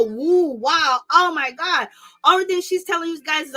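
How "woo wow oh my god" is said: a drawn-out, mocking "wow, oh my God"; slow, ironic gasp of fake amazement; mock shock. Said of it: "Candace is not saying anything that's go".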